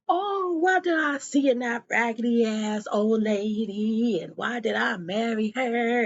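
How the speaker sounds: hammed-up wail of a regretful husband; mock regret. Matipa imagining her man's reaction, mock regret.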